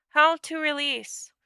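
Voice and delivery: questioning creature. A narrator's reading. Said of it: "Toya questioned".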